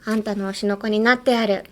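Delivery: quick, light run-through of the phrase; teacher modelling the phrase to learners, said fast; fast Japanese model line. Shown as a demonstration. 速めの見本. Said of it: "はい".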